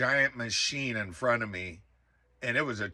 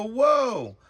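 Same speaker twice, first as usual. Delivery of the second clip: high, loud gasp of amazement; awed exclamation; surprised whoa; 9 semitones higher, 5 dB louder than usual. Retold or imitated. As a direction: blurt it out as the lights appear. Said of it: "And I go".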